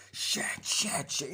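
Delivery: voiceless, hissed cursing; urgent whisper; whispered mock agony. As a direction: curse under the breath in acted pain. Victim hurt, retold.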